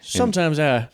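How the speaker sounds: lilting, put-on southern drawl. Shown as a demonstration. Co-host showing off his accent, southern drawl. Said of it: "slip into a little bit of a southern drawl".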